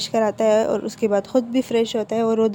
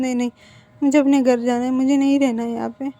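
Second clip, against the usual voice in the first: louder, tearful plea; tearful insistence; 2 semitones higher, 4 dB louder than usual. Acted. Crying Wing telling Wang he wants to go home, tearful and louder. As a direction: push through tears to go home.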